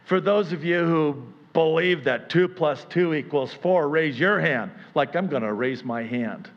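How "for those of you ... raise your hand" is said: teacher addressing the class, louder; a lightly voiced teacher; mock teacher. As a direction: call it out like a teacher. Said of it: "say something to the effect of".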